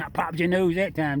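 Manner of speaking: chuckling through the words; laughing. Real, not acted. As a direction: laugh it out, amused at the bump. Teasing the raccoon after bumping it.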